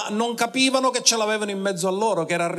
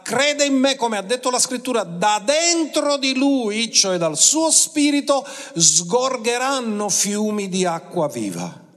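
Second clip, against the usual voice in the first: raised-pitch proclamation, easing down at the end; esclamazione; 5 semitones higher than usual. Retold or imitated. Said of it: "si alzò in piedi ed esclamò". (proclamazione con tono alto, poi più lento)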